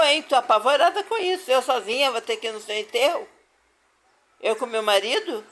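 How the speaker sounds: panicked at being left alone for the funeral; worried, frightened. Retold or imitated. Daughter tells her mother she's terrified of facing the burial, frightened and rushed. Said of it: "Preocupada, né?".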